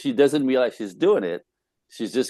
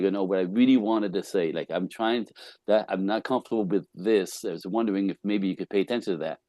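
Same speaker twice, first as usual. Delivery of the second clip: softer, measured and non-confrontational; calm clarification; 4 dB quieter than usual. Acted. Speaker modelling how to clean up a misunderstanding, calm. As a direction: clear it up calmly, keeping the voice down. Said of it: "again, calmly clean up".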